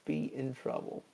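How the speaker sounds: high, slow, stretched-out unease; mock dread. Crewmate realizing they are in trouble, mock dread. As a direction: draw it out in hammed-up worry. Acted worried crewmate stalling.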